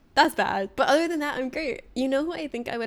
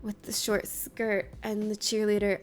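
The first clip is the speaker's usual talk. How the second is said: mocking quote; 4 dB quieter, slower than usual. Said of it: "Mira's like".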